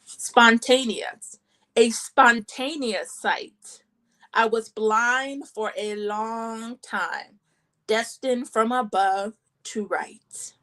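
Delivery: measured poem recital, pausing between short lines; spoken poem in short, separated phrases; poetry reading. Acted. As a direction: read your own poems aloud, phrase by phrase. Reads own poems aloud.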